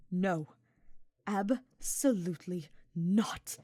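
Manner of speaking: halting, nervous protest; nervous stutter. A narrator's reading. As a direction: stammer it out, scared of heights. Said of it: "Hubert stuttered".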